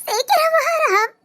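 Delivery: sobbing plea; crying. Acted. Daughter begging Ram to hurry, sobbing. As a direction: beg him through tears.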